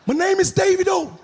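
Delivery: mock put-on American accent; fake American accent. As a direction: a singer faking an American accent. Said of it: "foreign accent all of a sudden".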